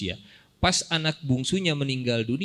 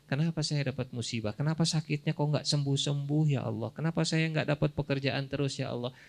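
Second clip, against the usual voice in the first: mock complaining prayer; 3 semitones higher than usual. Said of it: "mulai tuh keluar kalimat protes".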